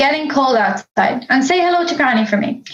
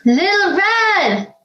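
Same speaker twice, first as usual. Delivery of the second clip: drawn-out call up the stairs, higher; 6 semitones higher, slower than usual. Acted. Mother calling her late daughter from below, drawn out. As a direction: call her name slowly to hurry her.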